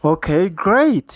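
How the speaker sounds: drawn out very slowly, word by word; slow modelled repeat. Shown as a demonstration. Teacher models the clip line for students, very slow. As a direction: stretch each word out for the learners. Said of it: "ኢላ ተወሳኺ".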